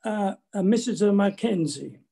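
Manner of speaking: hesitant, lightly imitated thick Italian accent; a mother stammering her answer in a hint of an Italian accent; mild Italian accent put on for a fake name. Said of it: "said in a very thick Italian accent".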